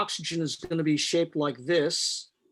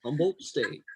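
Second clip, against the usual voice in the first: radio announcer voice; 5 dB quieter than usual. Pretend. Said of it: "it's the chemistry radio station".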